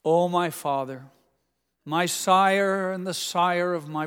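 slow, grandly formal plea in archaic English; a son pretends to address his father like a prayer, mock solemn; mock King James address. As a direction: ham up a lofty petition, only lightly. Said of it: "imagine how my father would have responded if I had come to him and said".

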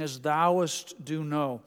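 slow, overly solemn prayer with stretched "thouest"; lightly voiced earnest man straining to pray beautifully; a hint of a churchgoer imitating King James prayer; mock flowery prayer. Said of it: "He kept saying".

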